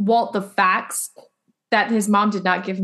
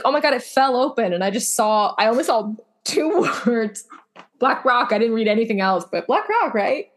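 mock innocent excuse; 2 semitones higher than usual. Acts out excuse for snooping.

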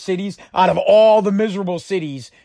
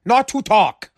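annoyed coworker retort; 5 semitones higher than usual. Retold or imitated. A worker fed up with chatty colleagues, higher irritated brush-off. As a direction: tell the chatty coworker to go away. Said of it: "You're like".

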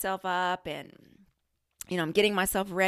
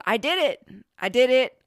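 high, loud little victory cheer; loud, elated announcement; triumphant; 5 semitones higher, 7 dB louder than usual. Real, not acted. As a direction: celebrate it proudly, voice raised.

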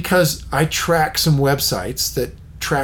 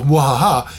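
sneering panto villain laugh; 3 dB louder than usual. Retold or imitated. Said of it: "as they start to chortle".

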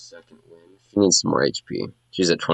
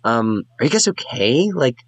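lightly voiced excited bard, a bit higher; gushing bard; 3 semitones higher than usual. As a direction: gush over the fight like a starstruck fan.

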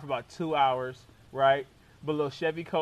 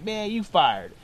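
jokey mock firing; joking; 2 semitones higher, 5 dB louder, slower than usual. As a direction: toss it off as a casual gag. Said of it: "like, joking with me".

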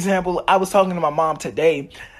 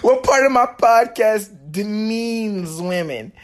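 straight-faced retry; 5 semitones higher, slower than usual. Shown as a demonstration. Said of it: "Can't even say that with a straight face".

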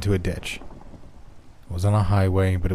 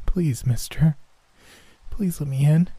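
put-on high pleading little boy; begging child; 8 semitones higher than usual. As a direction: beg like a freezing child. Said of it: "as he begged me for help".

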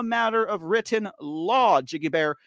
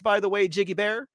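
usual speaking voice

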